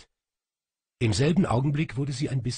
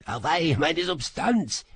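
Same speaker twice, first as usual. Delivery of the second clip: whining; 8 semitones higher, 4 dB louder than usual. Acted. Little demon moans to his master, whining. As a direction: moan over the bruise. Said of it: "jammerte er".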